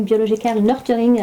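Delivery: attempted English accent on French speech; English words in a playful English accent. Shown as a demonstration. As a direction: put on a self-mocking English accent. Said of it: "avec mon super accent anglais".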